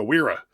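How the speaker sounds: Wera said with an English W, WEER-a. Shown as a demonstration. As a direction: begin Wera with a W, not a V. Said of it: "I'm pronouncing it with a W".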